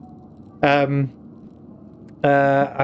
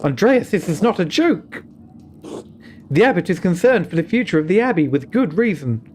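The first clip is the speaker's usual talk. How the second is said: higher, measured voice of a wary nun; a nun cautioning the visitor, firm and grave; stern nun; 4 semitones higher than usual. Acted. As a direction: warn him like a careful abbey sister.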